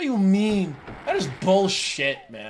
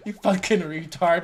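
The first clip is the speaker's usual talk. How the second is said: laughing insult. Real, not acted. Streamer laughing as he jeers at a scammer. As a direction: insult said through real laughter.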